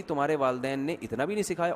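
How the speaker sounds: quietly needling mother-in-law; calm reproach. Retold or imitated. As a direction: mildly reproach in an unhurried, restrained voice. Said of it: "بڑے آرام سے کہے گی". (آرام سے دیا گیا طعنہ)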